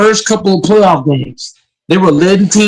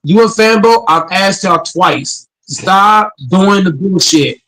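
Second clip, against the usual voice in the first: calm turning angry. Real, not acted. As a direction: spell out a final warning. Scolding the other panelists.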